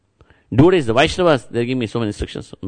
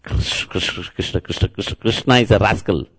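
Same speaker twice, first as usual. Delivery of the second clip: put-on stuttering child. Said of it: "That was his first word".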